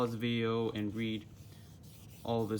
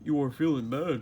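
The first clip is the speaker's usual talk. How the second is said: higher, louder goofy starfish voice; a loud, high Patrick doing his best; 4 semitones higher, 6 dB louder than usual. Acted. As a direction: play Patrick, sorry and sweet. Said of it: "said Patrick".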